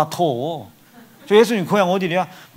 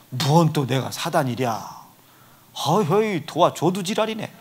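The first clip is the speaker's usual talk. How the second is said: Chungcheong grumble. Retold or imitated. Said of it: "충남 홍성 애들이 다 이 지랄이요".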